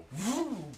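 high "whoo" whooshing noise; pine cone whoosh. Retold or imitated. Telling how a pine cone went by the carport, imitated whoosh. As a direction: imitate something flying past. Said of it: "I see a pine cone go".

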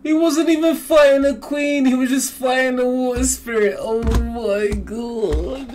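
shocked and thrilled; excited. Real, not acted. Stunned reaction to the reveal.

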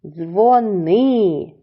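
Дзвони with a long НИ; dzvo-NYY; stress on second syllable. Shown as a demonstration. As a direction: split Дзвони and lean on ни. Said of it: "наголос на".

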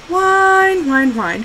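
high, drawn-out mocking whine falling away; teasing mock whine. Owner mocking her crying dog, teasing whine. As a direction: make fun of a crying dog. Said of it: "So I'd make fun of her".

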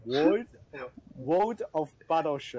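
tentative British "world"; attempted British accent. Shown as a demonstration. Friend copying the coached title, attempted British accent. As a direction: have another go in British. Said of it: "say it in a British accent".

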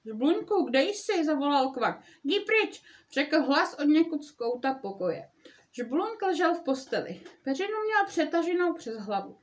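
lively read-aloud storytelling voice; story narration. A narrator's reading. Mother reading Frog and Toad aloud to listeners, storytelling voice. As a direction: read it like a bedtime story for kids.

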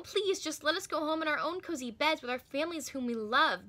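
put-on a mild, pleading girl's voice; begging. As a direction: plead gently to go home. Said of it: "begged Nicole".

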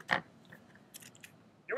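very slow, stretched out; drawn out. Real, not acted. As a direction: stretch it out slowly. Bracing before the last run.

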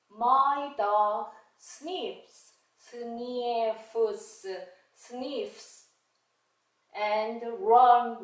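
slow, deliberate phonics-teacher read-aloud; slow model reading. Shown as a demonstration. Teacher modeling sentences for learners, slow careful reading. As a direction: read word by word for beginners to repeat.

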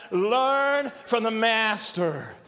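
slow, drawn-out LEARN and MASTER; thoughtful. Shown as a demonstration. Preacher leading congregation to think about it, "Learn from the master" slow and deliberate. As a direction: stretch "Learn from the master" slowly, letting each word sink in. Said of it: "Now say it and think about it".

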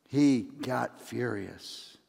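ordinary delivery

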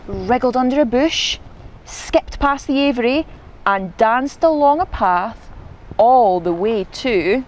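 expressive picture-book reading; story narration. A narrator's reading. Narrator follows Izzy sneaking off, storytelling voice. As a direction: build expectation step by step.

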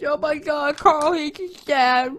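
very high, loud, slow fake swoon; sarcastic gushing. Mocking the show's emotional scenes, shrieking sarcastic praise. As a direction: gush with mock over-the-top delight. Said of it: "it's so convincing".

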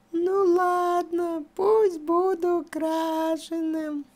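slow, soft, giving up; resigned. Acted. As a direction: sigh it out, defeated. Gives in after pleading.

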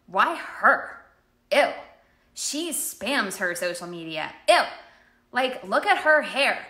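a put-on catty voice with a disgusted "Ew"; catty jealousy. Coach imitating a jealous rep mocking a rival. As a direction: sneer at a rival like a jealous gossip. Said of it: "You can use it as".

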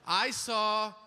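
slow, exaggerated careful delivery; mock politically correct tone; careful polite phrasing. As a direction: say it like walking on eggshells. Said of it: "Now I gotta be like".

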